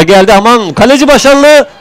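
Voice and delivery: high, loud startled cry; excited near miss. Real, not acted. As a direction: react to a sudden save. Near miss, keeper saves.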